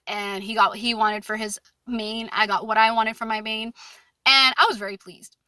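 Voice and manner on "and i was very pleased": hushed, satisfied aside; whispered aside. Real, not acted. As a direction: slip it in as a pleased whisper. Smug aside about getting her order.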